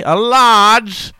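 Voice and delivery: hammed-up English accent, broad vowel; stuck English accent. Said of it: "stuck in it and you're trying to order".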